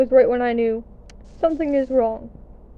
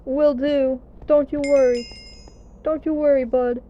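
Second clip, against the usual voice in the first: sarcastic; 3 dB louder than usual. Retold or imitated. Her own retorted reply.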